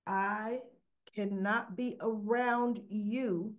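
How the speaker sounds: slow, weighty retold refusal; firm refusal. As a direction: draw a firm line, word by word. Sponsor refuses to be around him.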